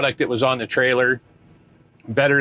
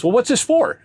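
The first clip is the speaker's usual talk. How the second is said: mock Asian accent; 12 semitones higher than usual.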